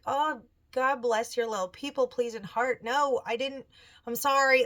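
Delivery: gushing apology. Retold or imitated. Mom apologising to daughter.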